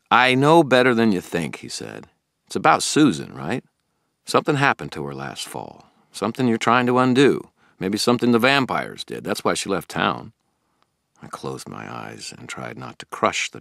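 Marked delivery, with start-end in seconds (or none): 0.1-1.6 put-on higher, earnest young man asking questions; a puzzled, keen friend pressing Harry; Billy the eager friend. Billy questioning Harry about the toads, puzzled and keen. 2.5-10.3 put-on higher, earnest young man asking questions; a puzzled, keen friend pressing Harry; Billy the eager friend. Billy questioning Harry about the toads, puzzled and keen.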